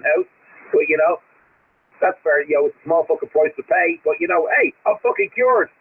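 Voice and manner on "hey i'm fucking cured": a higher, lightly voiced cheery patient; a hint of a delighted cured patient; mock cured patient. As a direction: play the miracle-cured sick man for a laugh.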